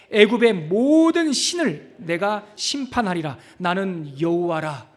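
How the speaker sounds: slow, stretched-out declaration of scripture; emphatic scripture reading. Acted. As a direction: read the verse slowly and solemnly, stretching 모든. Reads scripture with the congregation.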